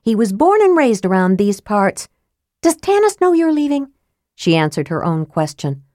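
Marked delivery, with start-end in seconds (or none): 0.0-2.1 put-on young woman voice. A narrator's reading. Tika voiced by narrator. 2.6-3.9 put-on high accusing young woman. A narrator's reading. Tika voiced by narrator.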